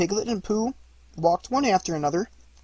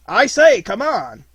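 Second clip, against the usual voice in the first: calling out; 7 semitones higher, 11 dB louder, slower than usual. Acted. Tigger calling through the mist.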